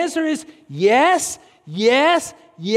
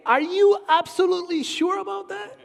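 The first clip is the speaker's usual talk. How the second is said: sarcastic challenge; 6 semitones higher than usual. Retold or imitated. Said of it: "And I wanna say".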